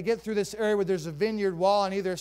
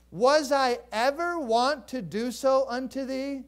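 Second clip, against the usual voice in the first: slow, higher pleading donkey voice; 3 semitones higher, 3 dB louder than usual. Acted. Donkey to its owner Balaam, slow hurt questions. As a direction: ask slowly, hurt and puzzled. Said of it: "the donkey said these words to Balaam".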